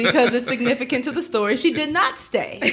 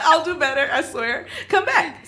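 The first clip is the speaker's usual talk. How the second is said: pleading; 6 semitones higher than usual. Retold or imitated. Pleading friend to come back.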